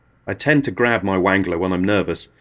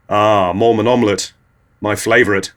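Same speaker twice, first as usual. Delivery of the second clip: purring; 5 dB louder than usual. Retold or imitated. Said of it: "purrs Tony".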